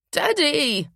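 put-on high childish wail; whiny child. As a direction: wail for daddy. Child appeals to father.

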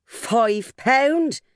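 high, incredulous "Five pound?"; amazed at the sum; surprised. Acted. Matron finds the money.

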